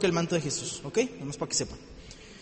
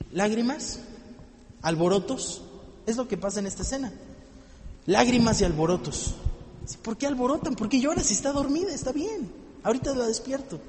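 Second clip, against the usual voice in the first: hushed; 3 semitones higher, 6 dB quieter than usual. Acted. Hushed reflection on the scene.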